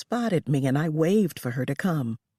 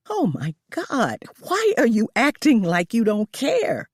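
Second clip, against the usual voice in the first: a bit higher and louder shout; 6 semitones higher, 4 dB louder than usual. Acted. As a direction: shout back at her in disbelief. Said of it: "I shouted".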